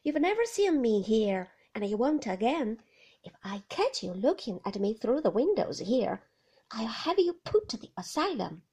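loud, then hissed, menacing warning; loud quoted threat, half hissed; Ben mimicking her threat. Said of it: "she said".

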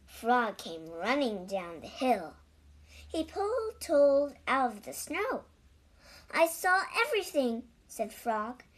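lively read-aloud with clear, measured phrasing; animated storytelling, words carefully spaced; children's story narration. A narrator's reading. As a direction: read a picture book to young children.

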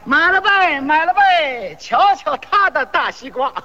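lightly sung-out hawking; mock vendor's cry. Melon seller touting his rival's melons, mock vendor's cry. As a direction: play at calling customers over. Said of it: "还得吆喝，互相吹".

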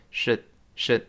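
should reduced to a quick schwa, barely said; weak should. Shown as a demonstration. Teacher demonstrating weak should. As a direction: glide over should lightly. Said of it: "弱化成should".

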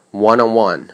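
"One on" joined, the second "one" stressed and falling; linked. Shown as a demonstration. Teacher showing learners linking and stress, linked "One on one". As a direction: link "One on", then stress the last "one". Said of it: "one on两个词连读".

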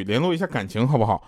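ordinary talk

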